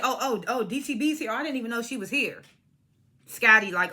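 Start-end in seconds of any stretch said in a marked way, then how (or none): 0.0-2.4 imitating someone sneakily feigning surprise; lightly put-on innocent surprise; mock sneaky innocence. Retelling Natalie's remark about someone being here, mock sneaky innocence. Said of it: "Natalie saying sneaky shit".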